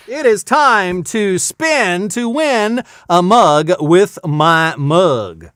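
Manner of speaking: slow, stretched-out contest title; game-show announcer. Pretend. Host announces the mug giveaway to viewers, announcer style. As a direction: draw out each word like a prize announcer.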